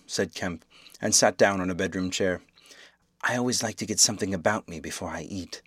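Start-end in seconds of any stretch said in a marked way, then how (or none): 3.2-5.6 talking through food; mouth full. Acted. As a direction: speak round a mouthful. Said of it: "with a full mouth".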